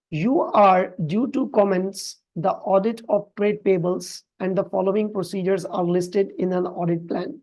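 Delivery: reads the English question out slowly and evenly; slow, careful reading of an exam question. Acted. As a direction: read each phrase of the question slowly. Reads the case question aloud slowly.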